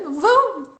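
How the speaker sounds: high, loud imitated veto; mock an annoyed husband putting his foot down; retold firm refusal. Imitating husband refusing bedtime, indignant.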